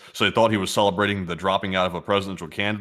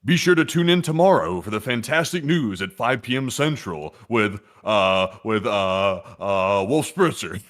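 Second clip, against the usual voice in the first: trailer announcer voice; slower than usual. Pretend. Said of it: "we're giving a trailer".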